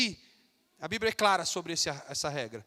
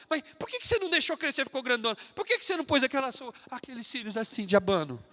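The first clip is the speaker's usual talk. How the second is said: high, jeering schoolyard taunt, mildly hammed; a light imitation of mocking teens; mocking classmates; 4 semitones higher, 5 dB louder than usual. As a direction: sneer at the believer's clothes like a teasing kid. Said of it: "Vão começar a chacotear".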